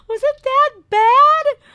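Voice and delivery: cracking up while asking; slow, laughing disbelief. Real, not acted. Laughing at the cooking joke.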